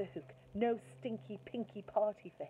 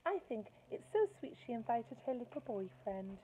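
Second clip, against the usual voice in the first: gushing mum; 5 semitones higher than usual. Acted. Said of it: "said Missus Nicely".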